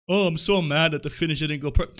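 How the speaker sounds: sarcastic whiny mimic of a wrestler; mock his complaint in a whiny put-on voice; mocking whiny Seth Rollins. Mocking Seth Rollins' complaint about the finish in a whiny put-on voice.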